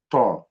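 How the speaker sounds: heavy, thickened T in "طا"; emphatic T. Shown as a demonstration. Teacher contrasts two Arabic letters, heavy emphatic T in طا. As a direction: say "طا" with a backed tongue and dark vowel. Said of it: "مفخم عن حرف التاء".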